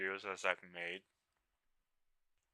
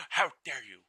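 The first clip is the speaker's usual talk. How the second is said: mock outrage; 7 semitones higher, 3 dB louder than usual. Mock offense at raid.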